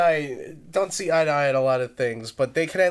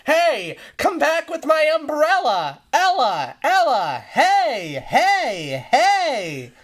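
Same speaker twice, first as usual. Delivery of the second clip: high, loud yelling genie; 11 semitones higher, 5 dB louder, much slower than usual. Retold or imitated. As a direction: holler after the stolen umbrella. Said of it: "and the genie went".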